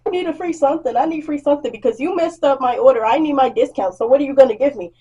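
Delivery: a hint of a hollering customer; mock demanding whine; lightly voiced pushy customer. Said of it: "her hooting and hollering at me".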